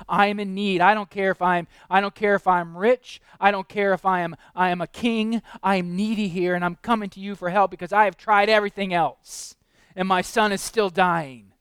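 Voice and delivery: lightly voiced nobleman begging for his son; desperate nobleman. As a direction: plead as the nobleman, voice pushed. Nobleman's plea voiced by preacher.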